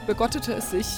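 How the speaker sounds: "begottete" said as a joke verb, stressed and falling; a comedian's wordplay. Retold or imitated. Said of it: "frei nach einem Komiker".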